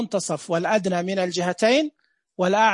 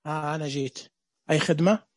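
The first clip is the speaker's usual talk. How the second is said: voicing the letter waw; 5 semitones lower than usual. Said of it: "وينك يا واو؟".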